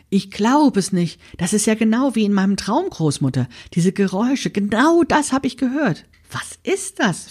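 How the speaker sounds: breathless amazement, climbing up; excited. A narrator's reading. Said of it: "fragte Mimi ganz aufgeregt".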